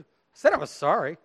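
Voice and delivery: imitating a child's grudging apology; insincere apology. Parent imitating the child who threw the sword, uncaring apology. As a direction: say sorry without really caring. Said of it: "Did that sound like they really cared".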